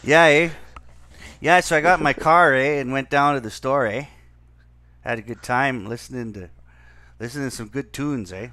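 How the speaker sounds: loud mock Canadian accent, clauses tagged with eh. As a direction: ham up a Canadian road-trip story. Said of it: "You and your Canuck boys, eh?".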